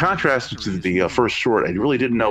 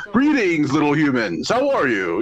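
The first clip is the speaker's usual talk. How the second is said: buoyant, happy game show host; 4 semitones higher than usual. Retold or imitated. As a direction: greet the crowd like a cheery game show host. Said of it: "sounding like a game show host".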